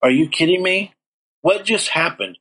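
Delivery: retold shock at a second chance; stunned disbelief. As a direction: caught completely off guard, voice jumping up. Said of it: "I was like".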